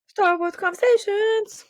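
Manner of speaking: slow, high, showy announcement; announcer segment title. Acted. Host introduces the next segment, as a showy announcer.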